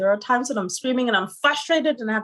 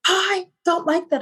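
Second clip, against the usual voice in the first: imitating son; 10 semitones higher than usual. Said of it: "And he's like".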